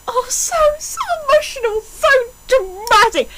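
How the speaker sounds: high mock-emotional gushing; mock dramatic. Mocking the fic's melodrama in a high, gushing mock-dramatic voice. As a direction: ham up the drama.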